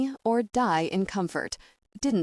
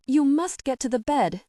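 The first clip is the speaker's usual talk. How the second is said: put-on a boy's high, pleading urgency, louder; desperate; 7 semitones higher, 5 dB louder than usual. A narrator's reading. Boy urging his injured lady to the bed, desperate. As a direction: plead with her to move, near panic. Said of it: "he said desperately".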